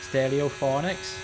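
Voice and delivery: slow, drawn-out Welsh lilt; Welsh accent. Shown as a demonstration. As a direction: say the band name like a Welshman. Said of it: "can't not say it in a Welsh accent".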